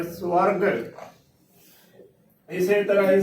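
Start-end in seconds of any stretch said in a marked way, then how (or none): 0.0-0.6 ਸਵਰਗ as su-arg, said fully; full pronunciation. Shown as a demonstration. Teacher models the word spoken fully, full pronunciation. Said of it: "ਭਰ ਕੇ ਬੋਲਣਾ ਹੈ".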